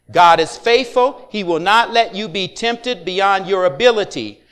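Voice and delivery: slow, steady read-aloud of the verse; scripture reading aloud. Real, not acted. Congregation reads scripture aloud.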